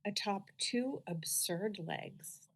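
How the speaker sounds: measured poem recitation with long pauses; unhurried, deliberate poetry-reading voice. Acted. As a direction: read it as verse, slowly, phrase by phrase. Reads own poem aloud.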